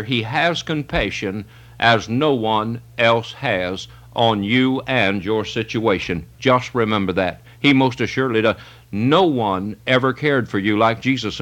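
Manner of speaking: a preacher softening to console his flock; tender. Real, not acted. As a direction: ease down and comfort the listener. Preacher turns tender about Christ's compassion.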